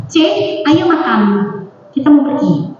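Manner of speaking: put-on everyday order to her child; matter-of-fact parental instruction. Mother calls her teenager to eat, instruction tone. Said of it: "Itu perintah bener".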